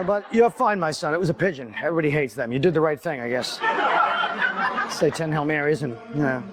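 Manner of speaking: a hint of a gentle confessor; mock priest. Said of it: "playing the part of the priest".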